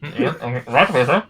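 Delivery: fawning muffled voice behind a door; muffled through door. Acted. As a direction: servant sucking up behind a closed door. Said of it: "muffled voices on the other side".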